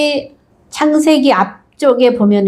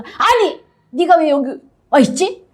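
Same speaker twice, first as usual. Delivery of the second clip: mock startled protest; 6 semitones higher than usual. Jacob confronts Leah.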